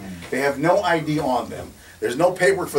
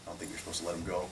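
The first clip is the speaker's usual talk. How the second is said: meek polite request; 5 semitones lower, 17 dB quieter, faster than usual. Retold or imitated. Deferential request to officer.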